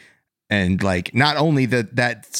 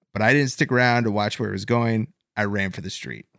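put-on Boston accent. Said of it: "So his quote goes a little bit like this".

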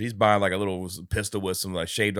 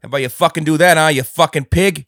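tough guy snarl; 6 semitones higher, 12 dB louder than usual. Acted. Mock tough cop insult.

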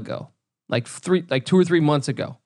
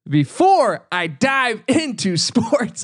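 laughing repeat; 6 semitones higher, much slower than usual. Shown as a demonstration. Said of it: "I'm just gonna re-, repeat everything".

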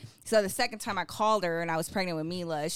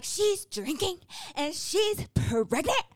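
gossiping viewers; 10 semitones higher, slower than usual. Retold or imitated. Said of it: "they were like".

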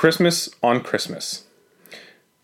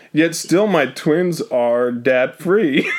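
stifled giggles; much slower than usual. Real, not acted. Reading while suppressing laughter.

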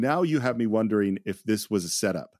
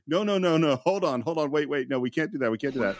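imitated frantic objection; 3 semitones higher than usual. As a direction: act out someone hurriedly putting the brakes on. Voices director stopping eager actor.

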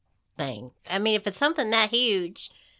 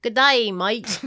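mock Australian accent; 4 dB louder, much slower than usual. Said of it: "Even your Australian".

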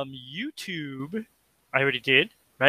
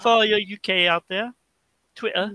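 bad British accent; 4 semitones higher than usual. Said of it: "that's a really bad impression of a, a British accent".

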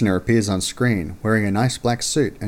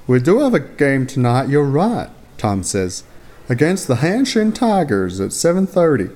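confident; 5 semitones higher, 3 dB louder than usual. Acted. Teammate Tom voiced.

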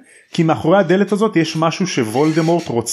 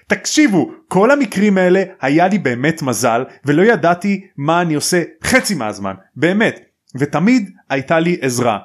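retold angry yelling; 3 semitones higher than usual. Harry protesting to his laughing friends, retold angry yelling. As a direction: protest heatedly, imitating an angry boy. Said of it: "ומתחיל לצעוק עליהם".

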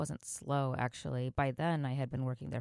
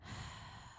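deep calming sigh; 14 dB quieter than usual. Retold or imitated. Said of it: "I just took a deep, deep breath".

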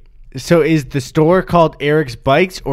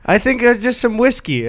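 imitated audience member; 11 semitones higher than usual. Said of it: "They're like".

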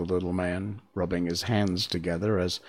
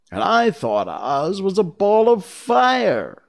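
Lion voice; 10 semitones higher, 6 dB louder than usual. Acted. Lion in surprise.

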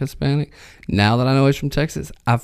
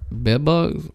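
put-on "Bed bugs" in his own country accent, pitched up; 4 semitones higher, 3 dB quieter than usual. Asked to say it again, own country accent. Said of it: "Say that again".

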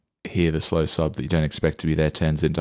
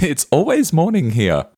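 laughing; 8 semitones higher than usual. Real, not acted. Laughing at his own joke.

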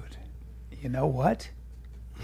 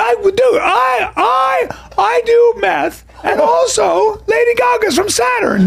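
much higher, shouted mock rant; mocking impression of a friend; 12 semitones higher, slower than usual. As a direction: parody your buddy as a screeching ranter. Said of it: "That's a good impression".

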